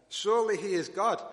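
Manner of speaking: mock them with false praise; mocking taunt. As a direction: Elijah jeering at the prophets of Baal. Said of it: "Elijah starts this mockery".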